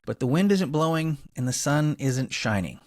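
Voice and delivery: polished presenter read with emphasised key words; scripted podcast intro. Acted. Host introducing the clean energy guest to listeners, scripted podcast intro. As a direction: read it like a narrated show opener, phrase by phrase.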